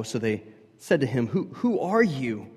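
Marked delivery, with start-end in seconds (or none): 1.3-2.5 loud, high, exasperated pleading; frustrated questioners. Acted. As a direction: press them for an answer, fed up.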